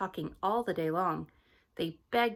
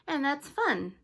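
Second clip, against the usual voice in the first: higher, cheery little voice; baby Hattie; 7 semitones higher, slower than usual. Acted. Baby Hattie answering her mother, higher and cheerful. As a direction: pipe it up like a chatty baby.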